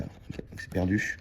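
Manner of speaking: soft, slow, breathy letdown as the game is lost; deflated mutter. Real, not acted. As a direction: sigh the words out, half whispered.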